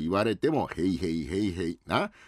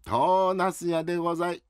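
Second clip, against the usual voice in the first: vendor cry; 8 semitones higher than usual. Acted. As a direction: try out the street cry. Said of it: "トーナスって言った方がいい". (売り声の練習)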